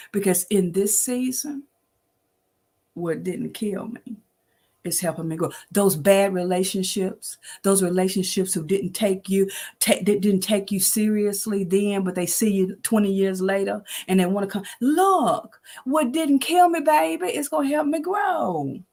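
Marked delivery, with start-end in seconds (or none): 2.9-5.5 quiet reflection. Real, not acted. 14.8-18.8 emphatic proclamation. Real, not acted. Preaching the refrain to listeners, high and emphatic.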